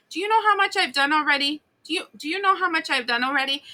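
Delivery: high, fast, indignant complaint; indignant viewer. Retold or imitated. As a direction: rattle it off high and offended. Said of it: "I'm like".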